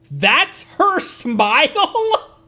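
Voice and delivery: loud, high, drawn-out disbelief; astonished high squeal on the edge of laughter; incredulous outburst. Real, not acted. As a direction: shriek it slowly in amused disbelief. Astonished at a character's smile.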